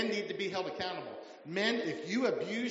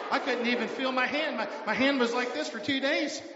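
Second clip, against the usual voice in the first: louder and higher, crying out about the pain; emphatic shout; 5 semitones higher, 5 dB louder than usual. Real, not acted. Pastor to congregation, about his wife's grip, emphatic shout. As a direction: shout it like the pain still stings. Pastor describes hand being crushed.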